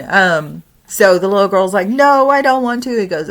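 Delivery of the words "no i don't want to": put-on much higher child voice; whining girl. Granddaughter refusing to walk, high child whine.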